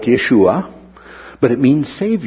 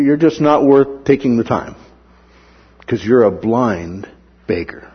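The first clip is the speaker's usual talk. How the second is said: disdainful crowd. Retold or imitated. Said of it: "That's what was their thinking".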